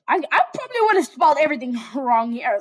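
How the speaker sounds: fast, giggling through the words; laughing. Real, not acted. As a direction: laugh it off quickly. Laughing at own joke.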